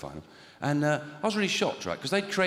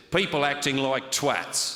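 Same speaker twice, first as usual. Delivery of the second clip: slow, serious official voice; lightly voiced earnest steward; deadpan steward; slower than usual. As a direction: say it like a solemn rule. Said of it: "this is exactly what he said".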